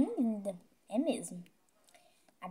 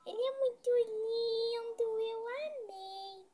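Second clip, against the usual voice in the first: cutesy squeal; 10 semitones higher, 4 dB quieter, slower than usual. Pretend. Gushing over a bear.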